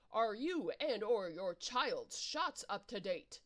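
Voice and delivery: slow, put-on nurse-like voice; syringe worm voice. Hypodermic worm asks the player about shots, slow and prim.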